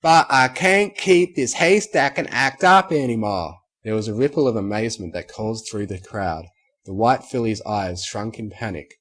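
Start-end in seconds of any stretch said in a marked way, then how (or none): 0.0-3.5 outburst. Acted. Applejack breaks out, shouting.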